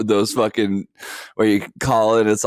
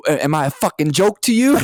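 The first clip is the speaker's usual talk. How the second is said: put-on mobster, pitched higher; mafia tough guy; 6 semitones higher than usual. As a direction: play an indignant movie mobster. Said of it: "talking like you were in the mafia".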